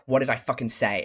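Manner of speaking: angry stern dad. Retold or imitated. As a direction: snap it like a furious father. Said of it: "stern dad".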